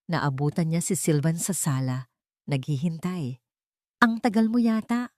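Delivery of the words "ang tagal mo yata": a hint of suspicion, higher pitch; suspicious question. A narrator's reading. Husband questioning his wife's late return, suspicious. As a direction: probe her gently with doubt. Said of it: "Ang boses ay may bahid ng hinala".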